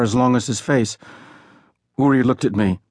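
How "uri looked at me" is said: ordinary delivery, nothing marked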